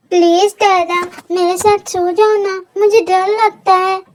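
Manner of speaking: lightly voiced scared little boy begging; a small kid asking not to be left alone; pleading child. Little Kook begging daddy to sleep beside him, mild scared pleading.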